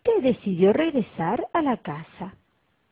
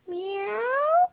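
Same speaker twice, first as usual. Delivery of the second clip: maullido; 12 semitones higher than usual. Acted. El maullido escondido.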